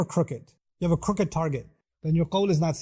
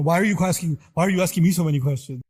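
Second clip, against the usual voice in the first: irritated; 6 dB louder, faster than usual. Retold or imitated. Annoyed person questioned about intent.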